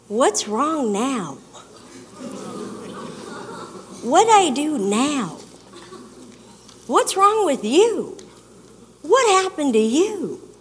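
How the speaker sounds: accusing tone. Retold or imitated. Partner confronting her upset state with an accusing tone. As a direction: let the blame leak through the tone. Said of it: "it's mostly the tone that gets it".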